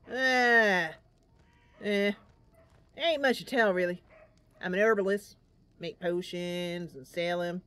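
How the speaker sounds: lightly voiced old man, rambling and a bit mournful; an old man grumbling about his lost appetite, then thankful; Boken, weary old herbalist. Boken describes his herbalist work.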